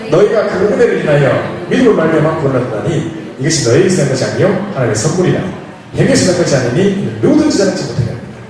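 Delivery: steady, formal Bible recitation; scripture reading. Acted. Preacher leading the congregation in reading verses, formal. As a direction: read it like scripture aloud together.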